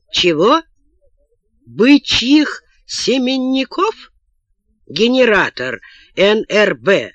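halting read of a list, item by item; reading aloud. A narrator's reading. Father reads out absurd barter prices, incredulous reading aloud. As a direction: read it out slowly with growing disbelief. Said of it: "прочитал отец".

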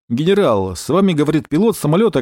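usual speaking voice

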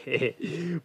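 quiet little laugh to oneself; soft self-satisfied chuckle. Acted. Guest alone, gloating over rich fools, soft chuckle. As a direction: chuckle under your breath, pleased.

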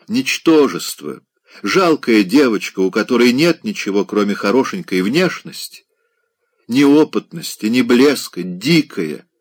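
a touch of a jealous society lady; scornful lady. Acted. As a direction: pour out the contempt. Lady's scornful tirade.

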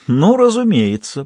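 mock-honeyed sarcastic reply; oily sarcasm. A narrator's reading. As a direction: lay the sweetness on thick to mock him. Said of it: "елейно-саркастическим тоном".

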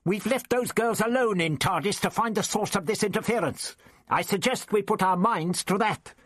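put-on the Doctor hurries Ian back to the girls; impatient Doctor. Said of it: "flared impatiently".

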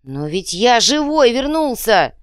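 high, loud, slow wail. A narrator's reading. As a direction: howl it in disbelief. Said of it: "взвыл Иголка".

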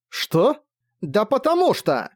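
high-pitched cry of frustration; outburst. A narrator's reading. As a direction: blurt it out in a burst. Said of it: "выкрикнула она".

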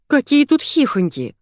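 high, indignant outburst; a restrained narrated roar, pitched high. A narrator's reading. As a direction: flare up at being laughed at. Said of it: "взревела Зайка".

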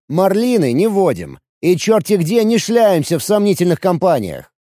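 a hint of an indignant fiddler; sarcastic violinist. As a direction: jab at him point by point.

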